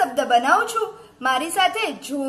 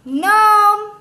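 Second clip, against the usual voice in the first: loud, high, drawn-out word; reading out loud; 5 semitones higher, 8 dB louder than usual. Shown as a demonstration. Teacher models a word for children, loud and drawn out. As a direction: sound it out loudly on a held high note. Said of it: "પાછા વાંચજો મોટેથી".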